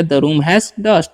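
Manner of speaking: very slow, word by word; spelled-out dictation pace; slow model reading. Shown as a demonstration. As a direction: say each word slowly for the class to copy. Teacher repeats model sentence.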